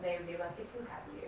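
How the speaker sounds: soft, choked-up voice; holding back tears; teary. Real, not acted. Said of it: "Sorry, I got teary".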